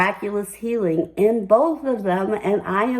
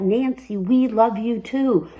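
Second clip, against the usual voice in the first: leukemia speaking; 2 semitones higher than usual. Retold or imitated. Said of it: "my leukemia spoke to me and it said".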